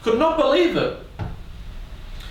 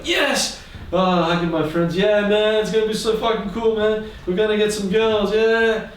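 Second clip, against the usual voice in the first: put-on much higher, pumped-up kid boasting; excited bragging; 7 semitones higher than usual. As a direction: crow about it like a proud kid. Kid celebrating with friends.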